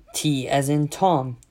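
slow, deliberate spelling over the phone; drawn-out "T as in Tom"; careful spelling-out. Retold or imitated. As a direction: spell it out painstakingly, letter and name. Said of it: "reading it out to him".

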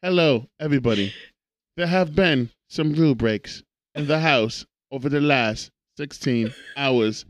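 lightly put-on English accent; measured virtual assistant with a hint of English accent; Lana. Device addressing the house about rule breaks, mock English accent. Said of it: "do the English accent".

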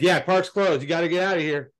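a hint of a bossy guard; imitating the guard repeating his order; mock park guard.

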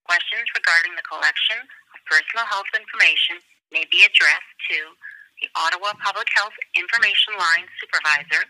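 recorded automated phone message; prerecorded hold line announcement; phone menu voice. Real, not acted.

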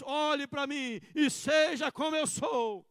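slow, loud shouted declaration; bold shout. Retold or imitated. Pastor showing what the true Christian says, shouting. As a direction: proclaim it boldly. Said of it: "o cristão diz".

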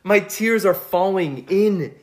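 words breaking into laughter; laughing. Real, not acted. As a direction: laugh while getting it out. Laughing through retold crying story.

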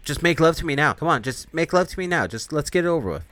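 mock seductive demon begging. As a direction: coax him like a hungry temptress. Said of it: "He's like".

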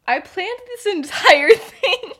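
loud, high, drawn-out outrage; indignant protest. Retold or imitated. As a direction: claim your credit, slow and loud. Indignant claim of credit, acted.

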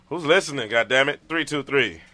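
loud, booming radio announcer hype. Acted. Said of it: "In his announcer voice".

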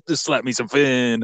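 lightly put-on porpoise voice; a hint of comic sea-creature voice; talking porpoise. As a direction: play a chummy porpoise. Acting out a porpoise greeting.

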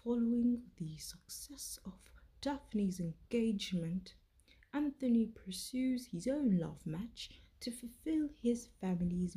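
put-on whispered British accent recap. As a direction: narrate the plot in a British accent. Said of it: "get my British accent warm".

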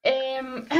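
catching breath after choking; clearing a choked throat. Real, not acted. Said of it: "que me atraganto".

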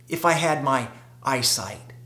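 whispered, wistful; whispered longing. Retold or imitated. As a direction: breathe the words as a wish. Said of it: "he had probably thought about".

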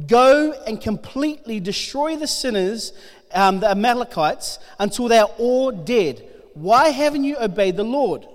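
steady, earnest Bible reading to the congregation; scripture reading. Acted. Preacher reading First Samuel to the congregation, earnest. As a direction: read it out like the passage matters. Reads Bible passage aloud.

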